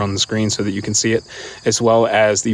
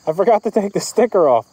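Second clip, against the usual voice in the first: yelling in helmet; 7 semitones higher than usual. Real, not acted. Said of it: "since I'm yelling in my helmet".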